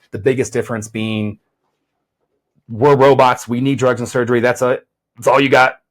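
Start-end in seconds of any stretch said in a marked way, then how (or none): 2.7-5.8 stiff, mechanical robot delivery. Pretend. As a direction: talk like a machine. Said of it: "my little robotic voice".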